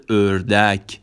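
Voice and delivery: "اردک" slow, as ördek with rounded ö; Turkish ö demo. Shown as a demonstration. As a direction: stretch "اردک" as ör-dek.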